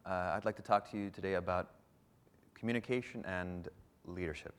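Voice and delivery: hesitant, restrained delivery that softens, with ums; a nervous presenter barely committing; unsure speaker. Shown as a demonstration. Coach demoing a timid speech intro, quiet and hesitant. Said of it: "I'm gonna walk on stage in three different ways".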